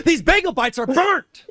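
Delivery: high, slow spoiled-star whine; mock diva griping about snacks; diva complaint. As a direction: complain like a pampered celebrity. Mocking diva voice.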